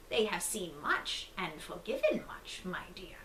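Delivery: breathy whisper of the wolf in grandma's bed. Acted. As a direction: whisper it like a hidden predator. Disguised wolf answers the girl.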